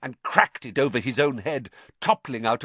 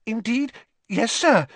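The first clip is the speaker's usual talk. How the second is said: high, squeaky elf voice, pleading; a fretting elf begging Harry to understand; squeaky elf, reproachful and worried; anxious house elf; 13 semitones higher, 4 dB louder than usual. Acted. Elf voice held.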